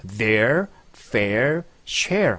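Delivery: very slow, R held in fair share; slow R practice; R sound drill. Shown as a demonstration. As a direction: roll through the R sounds. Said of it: "R 발음 계속".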